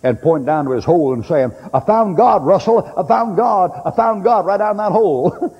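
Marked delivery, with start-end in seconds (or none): 1.7-5.6 high, loud excited yell; retold screaming. Lieutenant yelling to his friend Russell, high and loud. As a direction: shout it out like a man in a foxhole. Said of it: "he was screaming at".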